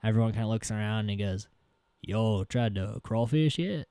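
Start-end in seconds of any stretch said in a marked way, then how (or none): 2.0-3.9 slow Southern tour-guide patter; lightly mimicked Southern guide; imitated Southern accent. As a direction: slip back into a put-on Southern accent. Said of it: "he goes right back into the Southern accent".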